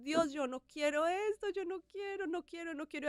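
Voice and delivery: a desperate plea to God, lightly voiced; imitated pleading prayer.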